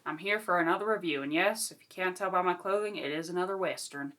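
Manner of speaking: light put-on Western cowboy accent; cowboy Western drawl. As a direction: greet them like a cowboy in a Western. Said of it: "I will not be talking like this".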